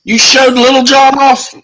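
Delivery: surprised teasing. Real, not acted.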